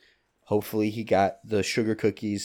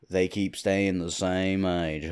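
Matthew McConaughey drawl; slower than usual. Retold or imitated. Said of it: "I can't do the accent".

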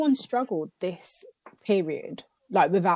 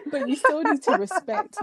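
higher-pitched, breaking up with laughter; laughing; 12 semitones higher, 3 dB louder than usual. Real, not acted. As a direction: get the words out through laughter. Resumes sentence while laughing.

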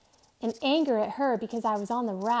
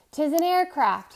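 louder, higher, eager news of a plane; excited; 6 semitones higher, 8 dB louder than usual. A narrator's reading. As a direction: burst out with sudden hope. Hearing rescue plane.

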